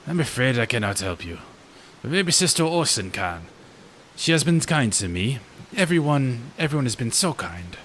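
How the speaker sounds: mild mock French accent. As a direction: give the gravekeeper a hammed-up French accent. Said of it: "Can I do a fresh French accent?".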